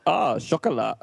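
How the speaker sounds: drawn-out, rising-then-falling ah of misunderstanding; mock realisation. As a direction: act out someone cheerfully getting it wrong. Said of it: "She was like".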